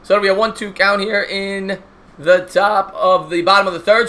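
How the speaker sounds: steady broadcaster call of the inning; play-by-play commentary. Acted. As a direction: call the game like a TV announcer. Mock play-by-play of game.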